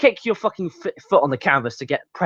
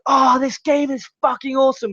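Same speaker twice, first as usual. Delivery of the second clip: mock gamer; 9 semitones higher than usual. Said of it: "imagine playing fifa and like".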